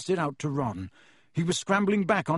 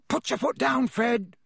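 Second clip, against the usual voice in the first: yelled; 9 semitones higher than usual. Acted. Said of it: "yelled Ron".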